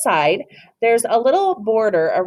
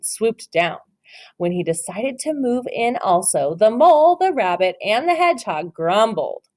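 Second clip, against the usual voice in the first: story narration. Acted. Teacher reads The Mitten to her class, storybook voice. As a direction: read it like a picture book for little ones. Reads picture book aloud.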